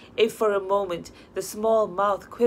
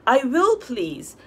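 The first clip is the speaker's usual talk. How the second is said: firm assertion; 5 semitones higher, 5 dB louder, slower than usual. A narrator's reading. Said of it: "asserted the young man".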